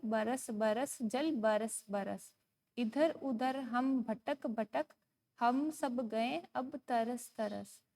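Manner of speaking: slow, measured sing-song recital; poem recitation. Shown as a demonstration. Teacher reading a poem to young pupils, slow sing-song. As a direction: read each word out slowly for children to follow.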